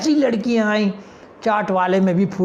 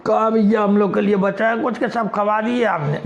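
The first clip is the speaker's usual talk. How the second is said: put-on boys' swagger. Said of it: "लड़कों का style देखिए".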